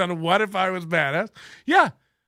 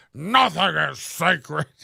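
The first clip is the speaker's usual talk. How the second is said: rough, creaky, wannabe tough-guy voice; 2 semitones lower than usual. Mocking a trailer voiceover line: mock tough-guy talk. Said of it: "guys who think they're tough sound like when they talk tough".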